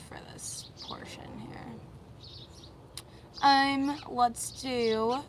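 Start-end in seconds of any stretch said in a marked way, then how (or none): 0.1-1.6 whispered under the breath; whispering. Real, not acted. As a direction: whisper it to yourself. Whispered aside about notes.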